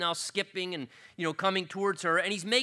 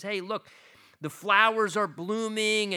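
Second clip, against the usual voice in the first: higher, louder eager announcement; acting out an excited young lover; 5 semitones higher, 4 dB louder than usual. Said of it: "And he's so excited".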